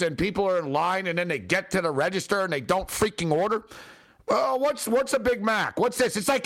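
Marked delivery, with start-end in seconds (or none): 4.3-6.2 lightly mocking a clueless customer, pitched a bit high. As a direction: imitate someone baffled by the menu. Mimicking clueless fast-food customers.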